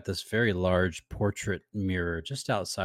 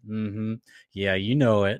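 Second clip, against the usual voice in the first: cocky boast; 3 dB louder than usual. Retold or imitated. Quoting himself to wife.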